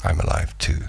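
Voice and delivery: breathy near-whispered quote of a kindred stranger; hushed knowing reply. Retold or imitated. Stranger quietly echoing him back, hushed and knowing. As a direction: say it under the breath, like sharing a secret. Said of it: "they go".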